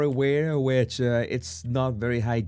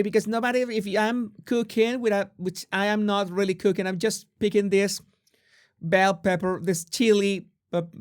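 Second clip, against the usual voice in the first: higher-pitched mock Valley Girl; Valley Girl accent; 6 semitones higher than usual. Host as Megan picking at peppers, Valley Girl accent. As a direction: keep up the Valley Girl chatter. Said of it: "Valley Girl accent".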